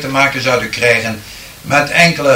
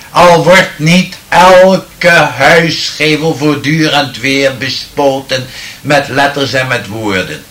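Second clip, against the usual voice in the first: poem recital. Acted. Medium improvising a poem from the audience's words, declaiming solemnly. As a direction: recite the verse with rising solemn fervour, then let it fade.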